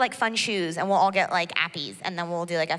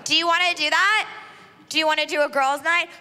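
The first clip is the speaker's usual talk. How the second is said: put-on excited drunk girl; 5 semitones higher, faster than usual. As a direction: gush over the plans at full tilt. Drunk girl gushing invitation.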